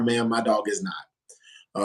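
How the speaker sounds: slow, polite retold correction; a measured, courteous refusal, drawn out; kindly firm. Dog owner answering a lady at the park, kindly firm. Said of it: "I kindly responded to her".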